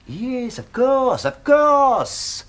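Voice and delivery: eager to smooth it over; flustered eagerness. Acted. Host hastily agrees after being caught out.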